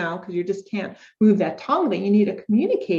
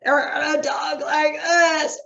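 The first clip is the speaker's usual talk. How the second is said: mock dog voice; 6 semitones higher, much slower than usual. Shown as a demonstration. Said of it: "doesn't have really good breath support".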